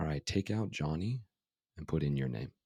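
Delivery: ordinary delivery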